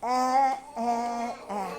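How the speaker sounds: "eh" as a short open e, fading; phonics sound. Shown as a demonstration. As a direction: say "eh" as the short e of elephant. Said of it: "E says".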